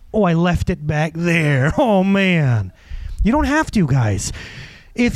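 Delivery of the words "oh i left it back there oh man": slow, drawn-out realization of a loss; mock dismay. Person halfway through the day missing their peace, mock dismay. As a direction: lament it slowly, lightly hammed up.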